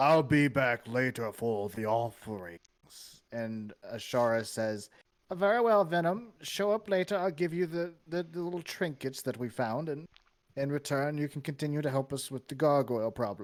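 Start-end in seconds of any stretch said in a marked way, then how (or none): 0.0-2.6 bellowing, bellowed-out call. During the group's story, a voice calls out to them, bellowing. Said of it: "you hear the voice like bellow out".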